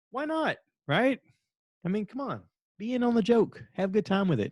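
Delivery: very high-pitched, teasing plea; playful coaxing. Pretend. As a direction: coax them in a comically high voice. Playfully pleading to join the laughter.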